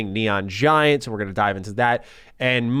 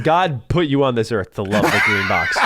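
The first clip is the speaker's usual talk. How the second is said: laughing shout. Real, not acted. Joking shout about Xbox fans.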